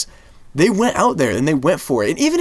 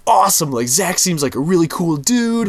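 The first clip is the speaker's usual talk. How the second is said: mildly excited, a bit higher; imitated excitement; 5 semitones higher than usual. Voicing Ben Affleck before the film's release, mildly excited. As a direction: act out someone looking forward to it. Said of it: "I'm excited for this".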